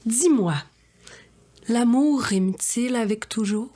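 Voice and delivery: swooping, theatrical rhymed questions; dramatic verse with rising, searching questions; grandiose poetic declamation. Acted. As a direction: declaim like a pompous poet.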